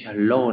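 "hello" with the doubled R said as a clear L; double R as L. Shown as a demonstration. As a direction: run both R letters together into one L in "hello". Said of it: "tất cả đều đọc là L hết". (đọc hai chữ R trong "hello" thành âm L)

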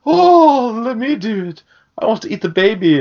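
high, squeaky goblin begging. Retold or imitated. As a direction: squeal it like a greedy little goblin. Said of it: "And Blunder's like".

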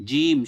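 জিম with a firm, hard j; strong, emphatic Arabic জিম; hard consonant. Shown as a demonstration. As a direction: press firmly into the j of জিম. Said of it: "শক্ত হবে".

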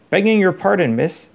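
grovelling servant politeness; humble elf. A narrator's reading. House elf bows deeply.

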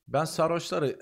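usual speaking voice

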